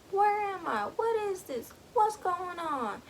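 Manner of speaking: high, frightened questions; confused panic. Retold or imitated. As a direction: plead in bewildered alarm. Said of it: "So Gus is like".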